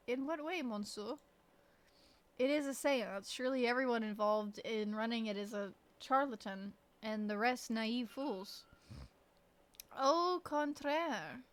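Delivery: put-on French character accent; French-accented character reading. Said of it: "only when I'm trying to speak French".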